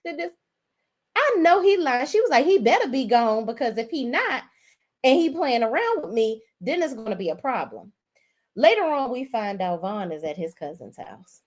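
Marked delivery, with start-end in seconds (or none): 0.1-7.9 high-pitched mock indignation; imitated pissed-off woman. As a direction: play her fuming and threatening, pitched up. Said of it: "Bridget at this point is pissed off".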